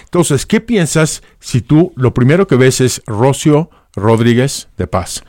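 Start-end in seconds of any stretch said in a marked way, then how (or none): 3.1-5.2 "Rocío" as RO-syo, first syllable stressed; name read without accents. Shown as a demonstration. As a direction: read "Rocío Rodríguez de Paz" deliberately, as if unaccented. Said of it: "No hay ningún acento".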